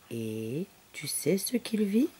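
slow, hushed teasing whisper; conspiratorial bedtime whisper; whispered question. Real, not acted. Teasing question to listening child.

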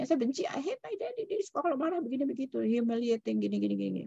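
put-on high, soft childish complaint; resentful child. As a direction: sulk like a kid complaining about his dad. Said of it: "Dia nggak suka bapaknya".

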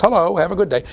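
lightly imitated shopkeeper greeting; store manager's voice. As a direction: bird copying a manager's human tone. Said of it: "in the voice of the store manager".

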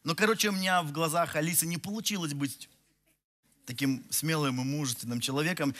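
ordinary talk

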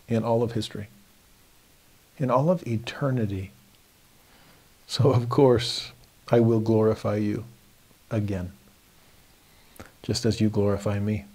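gentle, measured reassurance; a loving father steadying his troubled son; reassuring father. Acted. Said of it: "reassuring a troubled son on earth".

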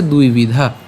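"দুই বিধা" as dui-vidha, dh aspirated; pronunciation demo. Shown as a demonstration. Teacher answers how it is pronounced, clear "দুই বিধা". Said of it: "তাহলে উচ্চারণটা কেমন হচ্ছে".

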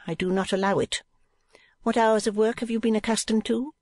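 high, firm wife's voice; jealous madam. A narrator's reading. Wife talking at husband through the niece, high jealous voice. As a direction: lay down the law in a high voice.

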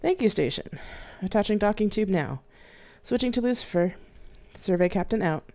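a hint of a brisk female captain signing off; mild female voice over the comms. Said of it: "responded the female voice".

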